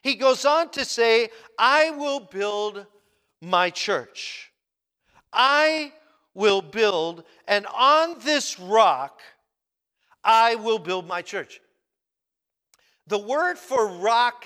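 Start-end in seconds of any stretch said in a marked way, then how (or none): 1.6-11.6 slowed, emphatic preaching of Jesus' words. Acted. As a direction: proclaim each phrase, drawn out and weighty.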